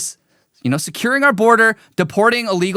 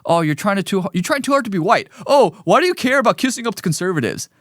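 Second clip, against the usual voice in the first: mocking leftist; faster than usual. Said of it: "you'll be cast aside as".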